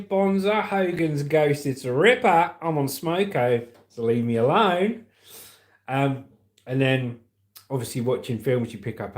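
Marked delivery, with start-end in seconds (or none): 0.0-5.1 lightly put-on Aussie twang; a touch of broad Australian slang-slinging; Australian accent. Shown as a demonstration. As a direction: slip into a mock Australian accent. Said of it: "I want to slip into Australian".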